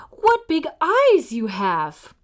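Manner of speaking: slow wary whisper. Acted. Girl noticing Granny's eyes, wary whisper. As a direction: hush it, uneasy.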